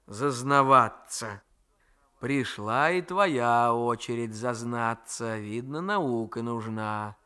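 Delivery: lightly voiced old grandmother, slow and chiding; a hint of a fond, grumbling old woman; grandmother's voice. Grandmother lectures on fate.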